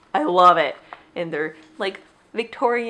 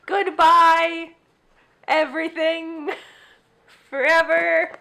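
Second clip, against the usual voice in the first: high; 8 semitones higher, slower than usual. Real, not acted. Overwhelmed by cuteness.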